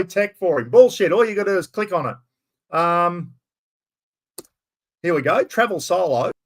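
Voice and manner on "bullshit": mock scoff. Real, not acted. Mock scoffing at Blackers's excuse.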